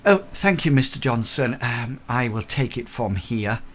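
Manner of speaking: a hint of a lady stepping in; lady's voice. Lady taking over from the porter, lightly voiced. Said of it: "you hear a lady's voice".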